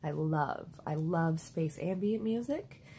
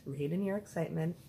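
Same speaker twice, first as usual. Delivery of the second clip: calmer self-instruction; faster than usual. Retold or imitated. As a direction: settle yourself down firmly.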